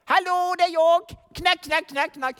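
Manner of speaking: lightly voiced buddy at the door; a hint of a chummy knock-knock; mock casual hello. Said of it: "Det var ingenting sånt".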